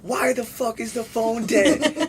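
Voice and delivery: high, drawn-out mock grandma outcry; imitating annoyed grandma. Grandma waking grandson over the phone, mock-indignant. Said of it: "My grandma would wake me up in the morning and be like".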